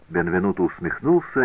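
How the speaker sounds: ordinary delivery, nothing marked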